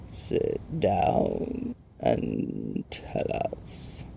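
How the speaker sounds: very low, soft, very slow rock creature; crackling Rock Chewer. A narrator's reading. Stone giant inviting the sprite to talk, deep crackle. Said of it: "Pion Crackshark crackled".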